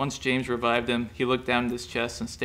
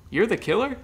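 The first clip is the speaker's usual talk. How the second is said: high disbelieving question; stunned, can't believe it; shocked; 11 semitones higher, 4 dB louder than usual. A narrator's reading. Shocked realization.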